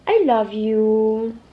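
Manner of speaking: put-on very slow, drawn-out retelling of a child's comfort; retold child's comforting. Mother reminding child of consoling her, slow tender imitation. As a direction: imitate a child consoling Mommy, stretching each word. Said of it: "And you said".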